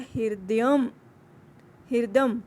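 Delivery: हृदयम then हृदम said with a clear hri sound; teacher modelling हृदयम; pronunciation demo. Shown as a demonstration. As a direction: show how हृदयम is spoken, with ri after h. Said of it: "ह क पैर में र है".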